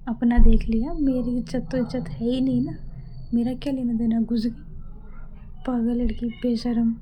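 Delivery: loud, huffy mutter to herself; vent, offended but half-joking; mock-outraged rant; indignant grumble. Grumbling after friend leaves.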